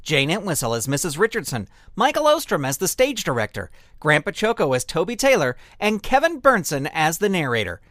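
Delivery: brisk, punchy credit read; closing credits announcer. Acted. Announcer thanking patrons and cast after the episode, upbeat credits read. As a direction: announce each name crisply with a lift and a firm fall.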